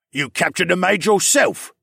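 arguing polar bear. A narrator's reading. Polar bear disputing with the hero, arguing. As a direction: argue back hotly as the bear. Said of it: "the polar bear argued".

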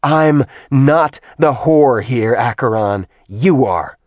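Artemis, scornful and hard; cold angry goddess. Acted. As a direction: turn the insult back on him. Artemis insults Acheron back.

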